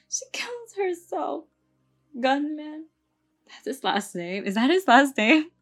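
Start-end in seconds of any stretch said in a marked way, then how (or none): 0.1-2.9 breathy high whisper. A narrator's reading. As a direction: whisper it hollow. Kat's line, whispered retry.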